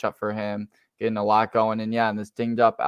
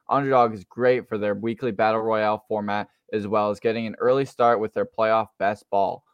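ad read. Acted. Sponsor ad read.

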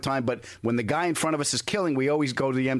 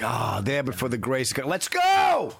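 eager shout; slower than usual. Retold or imitated. Impatient rider yelling at the bus, building to a shout. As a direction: urge the bus on, jumping to a yell. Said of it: "You're like".

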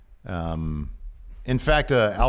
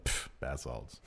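dismissive pfft; 9 semitones lower, 14 dB quieter, slower than usual. Pretend. Imagined dismissive reply.

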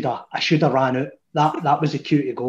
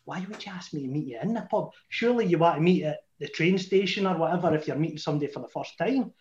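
quiet fast thought; 6 dB quieter, faster than usual. Retold or imitated. Suspicious thought said to himself.

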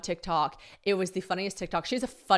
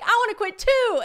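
eager; 8 dB louder than usual. Retold or imitated. Gushing about quitting too.

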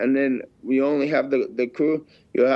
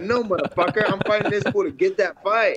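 imagined defiance; 6 semitones higher than usual. Retold or imitated.

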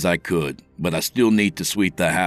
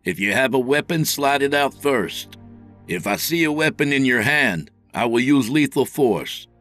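raised, high-pitched authoritative orders; stern police command; 10 semitones higher, 3 dB louder than usual. A narrator's reading. Officer ordering the intruder from under the bed, commanding. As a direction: lay down a firm, forceful ultimatum.

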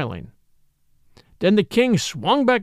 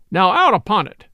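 vexed cry; 5 dB louder than usual. Acted. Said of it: "cried he".

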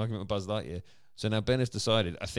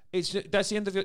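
put-on little girl voice; 11 semitones higher, 4 dB louder than usual. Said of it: "some little girl".

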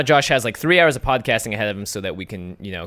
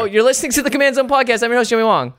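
higher, louder announcer intro; 10 semitones higher, 5 dB louder than usual. Acted. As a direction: sell the show name like a host. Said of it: "what show are they listening to".

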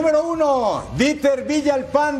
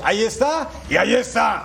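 excited goal call. Acted. Calling the goal.

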